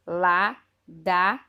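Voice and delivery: very slow and loud, each syllable of acarçu drawn out; teacher dictating the scrambled word acarçu very slowly; slow syllable reading. Shown as a demonstration. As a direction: sound out acarçu syllable by syllable for kids. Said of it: "Eu vou ler do jeito que está no livro".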